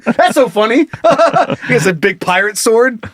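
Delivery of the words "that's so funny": "That's so funny" with a hollow put-on laugh; imitating fake laugh. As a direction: mimic a polite fake laugh, a bit higher. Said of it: "he's just fake laughing".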